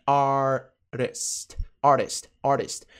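"Artist" said carefully, first stretched out; pronunciation model. Shown as a demonstration. Teacher drills the word for learners, careful pronunciation model. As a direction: model Artist alone, slow then natural. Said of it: "Pronúncia".

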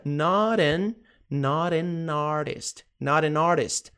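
"not an artist" flowing as one word; linked pronunciation. Shown as a demonstration. Teacher shows how N joins A, linked pronunciation. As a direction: join the N of an onto artist. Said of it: "que junta com".

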